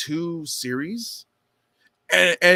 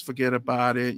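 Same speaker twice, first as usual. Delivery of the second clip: imitating New York accent; 5 semitones lower than usual. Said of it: "the way they talk".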